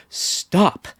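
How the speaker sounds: loud commanding stop; sharp reprimand. A narrator's reading. Kendra silences the quarrelling siblings, commanding. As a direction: cut them off with authority. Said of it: "reprimand carried sharply".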